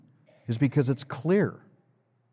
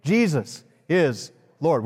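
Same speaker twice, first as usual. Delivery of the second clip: said with the congregation; 2 semitones lower than usual. Shown as a demonstration. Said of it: "Would you say it with me?".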